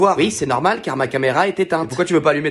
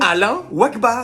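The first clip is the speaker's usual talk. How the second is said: slow name; 7 semitones higher, much slower than usual. Acted. Man states his name slowly.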